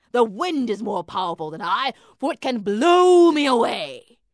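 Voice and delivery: dreamy drifting cloud. A narrator's reading. Cloud hesitating.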